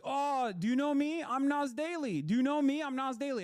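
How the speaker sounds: high, loud mocking impression of an eager vlogger; imitating Nas Daily. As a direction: squeal it out like a show-off begging to be recognised. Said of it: "he was like".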